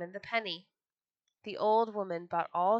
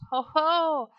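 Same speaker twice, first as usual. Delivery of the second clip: high, loud storybook "ho, ho"; triumphant mock laugh, belted; gleeful call; 7 semitones higher, 9 dB louder than usual. A narrator's reading. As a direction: crow it out at your pursuers. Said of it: "called out".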